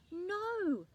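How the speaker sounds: high, loud frightened no. A narrator's reading. Top Leaf afraid of falling, high frightened no. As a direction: cry out in fear. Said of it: "in a frightened voice".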